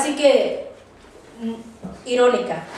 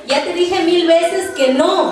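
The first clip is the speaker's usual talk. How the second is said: mock-exasperated, higher and drawn out; exasperated parent; 4 semitones higher than usual. Mother to child asking again, mildly exasperated. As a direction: act out a fed-up parent's slow refusal.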